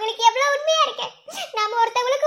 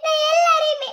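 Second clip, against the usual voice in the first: crying; 4 semitones higher than usual. Acted. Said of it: "இப்படி அழுதின வந்து".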